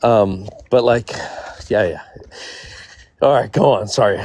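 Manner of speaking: a little tipsy, loose and rambling. Real, not acted. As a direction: talk like you've had a few drinks. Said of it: "I'm a little tipsy".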